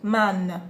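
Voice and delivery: "Man" with a nasal vowel, tongue not closing; "Man" through the nose, no English n; French nasal man. Shown as a demonstration. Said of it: "It's not the same as in English".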